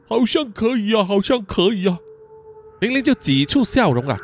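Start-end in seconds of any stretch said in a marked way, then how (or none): 0.1-2.0 childlike, put-on voice of glee; delighted Lawrence. Lawrence seeing the rope give way, delighted. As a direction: exclaim it like a pleased simple child. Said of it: "Lawrence高兴的大声说".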